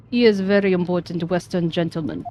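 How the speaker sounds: put-on proud stiff Russian accent; weak Russian accent, proud sailor. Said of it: "I'm so bad at this Russian accent".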